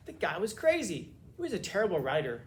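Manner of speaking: hammed-up scornful critic; mock dismissive critic. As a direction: imitate critics waving him off. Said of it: "just saying".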